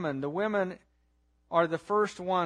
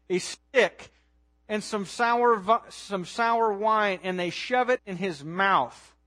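forceful preaching; 2 semitones higher, 4 dB louder than usual. Real, not acted. Preacher recounts the degradation.

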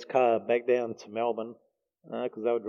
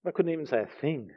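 teary; 5 dB quieter than usual. Real, not acted. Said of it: "Sorry, getting a bit teary over this".

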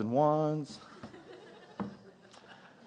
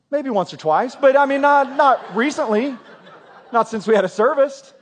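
laughing self-mockery; 7 semitones higher, 5 dB louder than usual. Real, not acted. Joking about the elevator fear.

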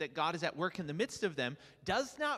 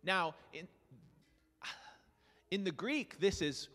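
usual speaking voice

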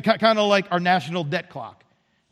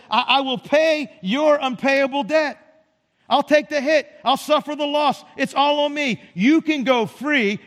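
lightly voiced king, higher and emphatic; 5 semitones higher than usual. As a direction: declare it as a generous king, each promise pitched up. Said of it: "but the king says".

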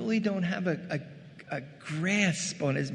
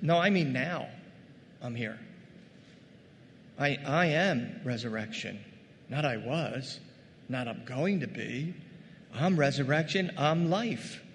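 gentle Jesus; 2 semitones lower than usual. Acted. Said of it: "And Jesus says".

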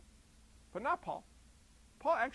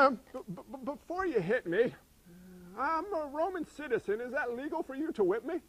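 stammering Paul; 4 semitones higher than usual. Retold or imitated. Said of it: "He says".

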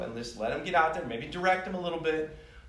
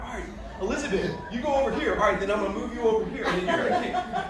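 high, loud, fast calls with a laugh; hammed-up coach directing players like a video game; excited sideline coaching; 8 semitones higher, 4 dB louder, faster than usual. Coach retelling how he barked positions at the U8 girls, excited and loud.

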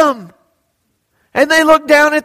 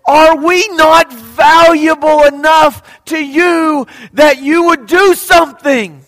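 pleading shout; 3 semitones higher, 4 dB louder than usual. Acted. Disciples pleading with Jesus.

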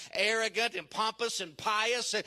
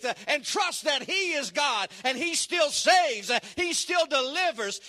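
building from firm to raised, louder pulpit cry; fervent preaching; 2 semitones higher, 4 dB louder than usual. Real, not acted. Preacher calls people to trust God, fervent preaching. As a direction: drive each phrase home to the congregation.

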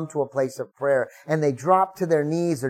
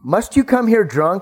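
louder, higher accusing question; demanding; 5 semitones higher, 6 dB louder than usual. Acted. Priest Eli confronting Hannah in the tabernacle, loud and demanding. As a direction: call her out as a drunk. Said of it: "he demanded".

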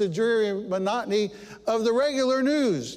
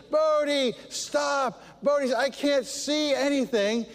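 raised, higher calls after the dog; shouting at dog; 5 semitones higher, slower than usual. Retold or imitated. Chasing runaway dog down the street, raised mock shout. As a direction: call the runaway dog to stop. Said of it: "I'm shouting".

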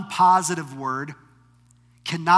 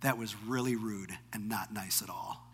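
soft, hushed, a small daughter's reproach; quiet child rebuke; 6 semitones lower, 12 dB quieter than usual. Retold or imitated. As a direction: whisper it like a disappointed child. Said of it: "my nine-year-old daughter says to me".

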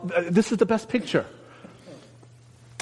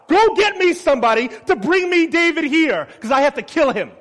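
angry king; 10 semitones higher, 6 dB louder than usual. Retold or imitated. Saul's rage paraphrased.

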